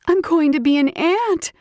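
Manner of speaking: high, loud thrilled cry; excited squeal. Acted. Layla cheering at becoming an aunt, high and thrilled. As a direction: squeal over the news.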